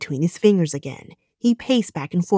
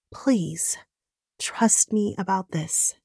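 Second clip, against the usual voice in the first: softer, slower plea; empathetic; 5 dB quieter, slower than usual. Acted. Maddie softly pleading with Bobby to trust her. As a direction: ease off and plead gently. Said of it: "melted into empathy".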